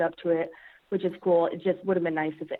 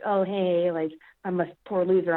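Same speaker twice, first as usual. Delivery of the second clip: mock whining. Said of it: "whining like".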